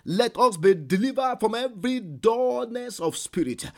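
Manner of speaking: loud, high preaching at full force; fiery prayer. Acted. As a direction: cry out the prayer over the congregation. Prays aloud at full force.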